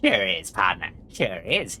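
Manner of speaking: lightly voiced Western partner; cowboy. Gabby agrees with partner in a light cowboy voice. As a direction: agree like an old cowpoke.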